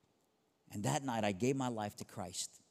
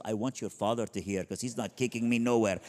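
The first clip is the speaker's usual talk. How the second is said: defiant loud mom; 4 dB louder than usual. Retold or imitated. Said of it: "She goes".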